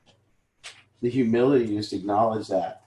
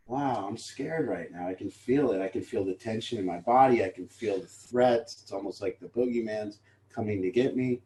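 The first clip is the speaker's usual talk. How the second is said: calm admission; 3 semitones lower, 5 dB quieter than usual. Pretend. Admitting fear calmly.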